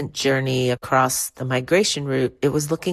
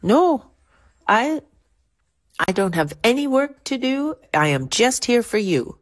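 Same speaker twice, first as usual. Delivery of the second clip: Parvati; 10 semitones higher than usual. Retold or imitated. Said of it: "and says".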